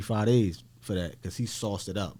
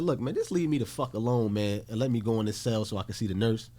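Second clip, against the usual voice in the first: slightly raised, exasperated pleading; retold exasperation; 2 semitones higher than usual. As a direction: act out arguing to be left alone. Acted quarrel with guard.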